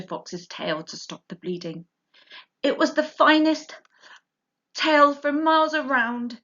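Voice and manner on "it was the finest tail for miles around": high, tender mother fox. Acted. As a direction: soothe him like a loving mother. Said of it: "she said between licks".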